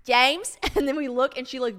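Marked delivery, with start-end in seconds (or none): 0.0-0.6 loud, higher call of a name; imitated child calling out. Little girl calling her neighbor, imitated calling out. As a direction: call out like a kid next door.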